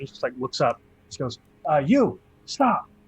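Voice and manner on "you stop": loud, high, yelled voice. Voicing a guard who yells at a player to stop: guard yelling stop. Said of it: "And he yells that at you".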